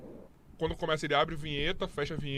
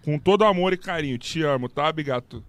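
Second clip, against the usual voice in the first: sarcastic affection; 3 semitones lower, 5 dB louder than usual. Real, not acted. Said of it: "precisava ser tão carinhoso com o seu inscrito".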